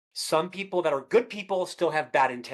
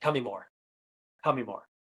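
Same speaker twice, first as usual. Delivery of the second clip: softer, lower, inviting more; calm tell-me-more; soft invitation; 5 semitones lower, 4 dB quieter than usual. Retold or imitated. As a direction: gently ask them to go on. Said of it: "took them aside and said".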